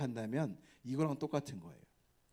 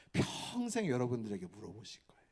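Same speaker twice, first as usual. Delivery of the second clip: ordinary talk, nothing marked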